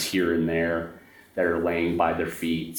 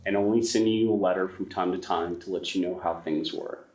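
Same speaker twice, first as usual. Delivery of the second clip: steady storyteller's narration over music; story narration; 3 semitones higher than usual. A narrator's reading. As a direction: lay out the backstory like a campfire tale.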